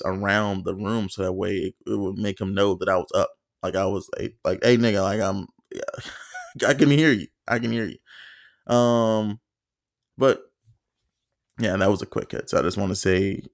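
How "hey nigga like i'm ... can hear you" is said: calling out, laughing. Retold or imitated. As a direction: call across the room to stop him. Calling out to the roommate.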